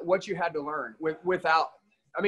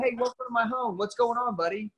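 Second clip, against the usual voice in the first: welcoming host; 6 semitones higher than usual. Retold or imitated. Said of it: "talking to them like".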